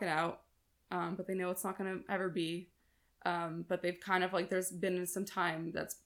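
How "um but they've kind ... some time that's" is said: dry-mouthed from long talking. Real, not acted. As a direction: speak with a parched mouth. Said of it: "I'm getting a very dry mouth from talking this long".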